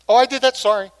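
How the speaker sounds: quick throwaway sorry; flippant sorry. Shown as a demonstration. Preacher mocking a careless apology, flippant.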